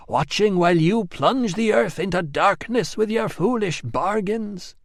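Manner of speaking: a solemn goddess calling out; commanding goddess voice. Acted. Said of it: "Shining Woman speaks".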